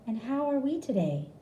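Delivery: high, sing-song nurse question; patronising nurse. A narrator's reading. Nurse asking patient how he is, patronising. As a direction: talk down like to a child.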